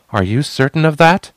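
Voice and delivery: high, loud challenge; defiant. Acted. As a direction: challenge him boldly.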